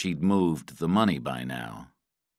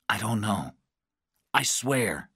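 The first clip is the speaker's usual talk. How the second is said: higher-pitched, worried denial; anxious pleading; 4 semitones higher than usual. A narrator's reading. Patrick facing the electric lever, anxious pleading. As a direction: plead that you are telling the truth. Prisoner pleads before being shocked.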